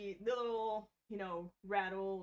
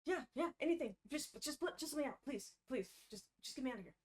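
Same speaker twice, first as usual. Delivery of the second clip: higher, frantic pleading; desperate begging; 4 semitones higher, faster than usual. Acted. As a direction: plead for your life. Prisoner begs the party.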